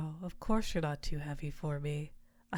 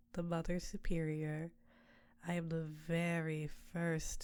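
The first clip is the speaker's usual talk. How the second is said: succubus queen. Acted. Succubus Tiamat to her summoner, seductive close voice. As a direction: purr over your mortal like a temptress.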